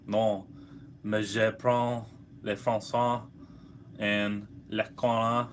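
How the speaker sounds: clumsy French reading. Shown as a demonstration. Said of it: "keep reading this French thing".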